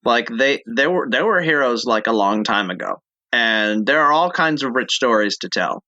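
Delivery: lightly voiced dumb guy. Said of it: "the dumb guy voice".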